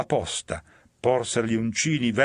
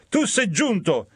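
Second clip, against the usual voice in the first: higher, louder cry; shouted; 9 semitones higher, 3 dB louder than usual. Acted. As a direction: yell after the fleeing sinner. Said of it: "gridò".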